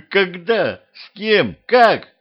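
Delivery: high-pitched, incredulous volley; taken aback. A narrator's reading. Husband demands details of his alleged betrayal, taken aback. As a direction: fire off each question, pitch jumping up. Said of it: "опешил Петрович".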